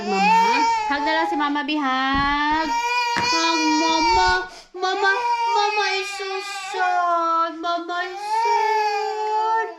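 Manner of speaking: high, loud mock wail; pretend sad. Mama begging her child for a hug, pretend sad. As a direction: plead for a hug in a drawn-out fake cry. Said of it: "Pag nagpe-pretend ako na sad".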